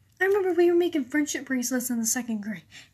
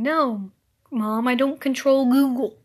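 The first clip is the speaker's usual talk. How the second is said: louder, fed-up answer to mom; exasperated retort; 5 dB louder than usual. Acted. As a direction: snap back at mom, exasperated. Answering mom about technology.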